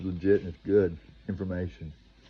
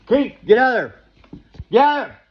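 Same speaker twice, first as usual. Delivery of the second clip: high, loud desperate yell of a warning; frantic shout; 15 dB louder than usual. Retold or imitated. Believer yelling at Keith to get out, frantic shout. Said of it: "that still believes".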